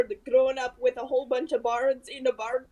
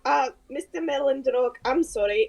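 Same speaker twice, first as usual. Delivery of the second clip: lightly voiced apologetic character; hesitant in-character apology to a king; a touch of character accent, contrite; Solace, apologetic adventurer; 3 dB louder than usual.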